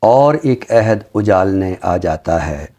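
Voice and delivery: slow, measured ghazal recital with long pauses; poem recitation. Acted. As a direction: savour each line of the couplet, unhurried. (धीमी, ठहरी हुई ग़ज़ल की अदायगी)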